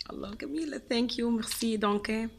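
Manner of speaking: high-pitched, gushing gratitude; delighted thanks. Real, not acted. Vlogger thanking in several languages for candy, delighted. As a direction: coo your thanks in delight.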